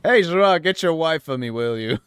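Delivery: brash, loud prank caller; cocky demanding. Acted. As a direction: swagger in, demand it loudly.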